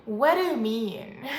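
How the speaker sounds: loud, incredulous question; loud, playful bafflement; baffled reaction. Acted. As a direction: act out not getting what someone means. Acted baffled reaction to a speaker.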